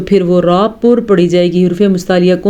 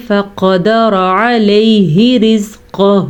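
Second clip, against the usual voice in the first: فقدر علیہ رزقہ resumed slowly, joined smoothly; slow linked reading of فقدر علیہ رزقہ; rejoin after breath; much slower than usual. Shown as a demonstration. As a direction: start again from فقدر and link it on. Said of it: "دوبارہ ملائیں گے".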